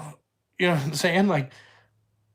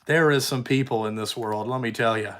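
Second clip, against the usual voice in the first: amazed disbelief; 6 semitones lower than usual. Retold or imitated. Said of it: "I was like".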